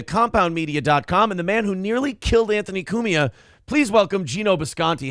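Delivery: showman's welcome for a guest; announcer intro. Pretend. Host bringing on a guest with an announcer's flourish. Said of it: "Best intro in months".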